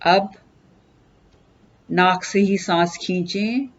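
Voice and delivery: unhurried instruction with long pauses; guided meditation. Acted. Teacher leading listeners into breath meditation, calm guided delivery. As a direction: guide them gently into stillness, pausing between steps.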